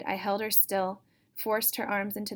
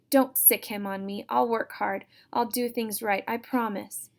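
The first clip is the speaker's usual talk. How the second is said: pleading; 2 semitones higher, 4 dB louder than usual. Acted. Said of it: "Erica cried".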